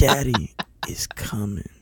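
breathless whisper cracking into laughs; whispered through laughter. Pretend. Repeating the joke to his co-host, whispering through laughs. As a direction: try to say it again but laughter wins.

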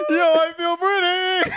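put-on high, slow girly squeal; sing-song it, feeling pretty. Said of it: "And I was like".

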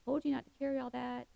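quick, exasperated mock scolding; frustrated parent. Parent scolding a kid about the heavy backpack, exasperated. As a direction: huff it out like a tired parent on a hike. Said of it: "we as parents get frustrated".

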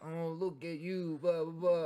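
patronising sing-song aimed at a grown man; imitating a condescending friend cooing at a recovering alcoholic; mock baby talk. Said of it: "you're treating them like a baby".

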